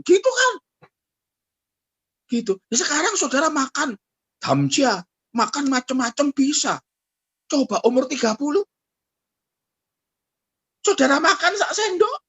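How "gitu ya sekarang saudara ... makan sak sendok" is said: ordinary talk, nothing marked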